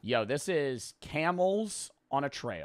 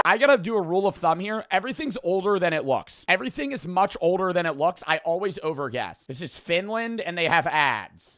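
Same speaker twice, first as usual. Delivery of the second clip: raised pitch, emphatic self-scolding; worked-up exasperation; 6 semitones higher, 4 dB louder than usual. Real, not acted. Streamer scolding himself for always overguessing, exasperated. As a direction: complain out loud, pitched up. Worked up after a bad guess.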